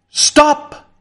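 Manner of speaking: high, loud, commanding shout; panicked order to the flood; frantic cry. Acted. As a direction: shout down a wall of water. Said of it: "cried Mister Fotheringay to the advancing water".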